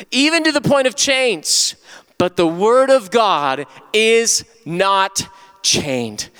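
high, deliberate scripture proclamation; emphatic preaching. Real, not acted. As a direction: proclaim it slowly to the congregation.

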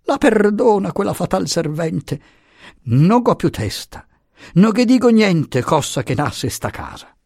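high-pitched plaintive apology; flustered little man. A narrator's reading. Puttini apologises for his fatal servant, flustered. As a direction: complain helplessly in a high voice.

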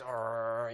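low, grumbling growl; mock angry growl. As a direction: growl like a fuming husband. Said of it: "he's all mad".

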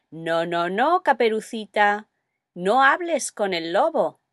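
lightly voiced caution, wagging a finger in the voice; warning voice.

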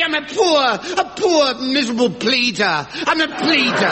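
mock pleading. Accused begs to change plea.

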